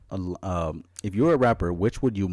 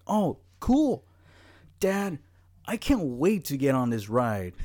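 put-on excited kid voice; 4 semitones higher, slower than usual.

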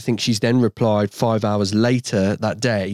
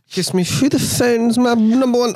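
high, excited announcer voice; 10 semitones higher than usual. Acted. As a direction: hype it up. Announcing a song.

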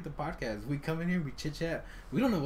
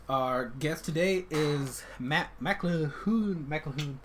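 slow guest introduction; 2 semitones higher, much slower than usual. Acted. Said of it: "introduces guest".

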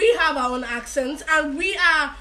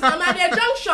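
"junction" in Akwa Ibom English, J still sounded; Akwa Ibom accent; 3 semitones higher than usual. Shown as a demonstration. Telling caller where she is, Akwa Ibom accent. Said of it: "An Akwa Ibom accent, a normal typical".

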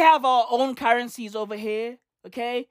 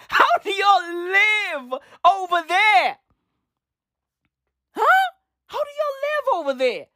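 much higher, stretched-out incredulous cry; high disbelief; 9 semitones higher than usual. Real, not acted. Incredulous question to Australians.

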